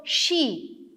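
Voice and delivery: SHE set apart as one beat; syllable by syllable. Shown as a demonstration. Teacher counting out syllables for viewers, isolated word. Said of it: "we have eight syllables".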